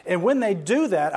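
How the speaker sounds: ordinary talk, nothing marked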